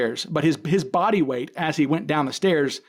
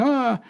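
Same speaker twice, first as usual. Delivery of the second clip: mock panicked gasp; 8 semitones higher than usual. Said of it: "And she's panicking".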